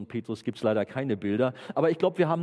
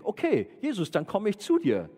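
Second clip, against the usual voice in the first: higher-pitched, resolved call; Petrus; 7 semitones higher than usual. Acted. Disciple tells Jesus he is coming, acted resolve. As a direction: announce it boldly, ready to set off. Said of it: "wenn wir uns nochmal den Petrus vorstellen".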